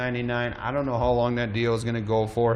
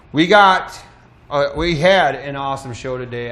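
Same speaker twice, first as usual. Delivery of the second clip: out of breath; 8 dB louder than usual. Real, not acted. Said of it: "I am out of breath".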